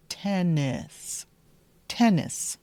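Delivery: Tennis, clear short vowels; Tennis, the right way. Shown as a demonstration. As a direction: Tennis with both syllables clear. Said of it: "and then short I".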